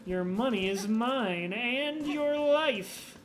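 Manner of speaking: lightly voiced Hornet, slow drawn-out ending; a light menacing Hornet taunt, slowing at the end. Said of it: "that's my new Hornet voice".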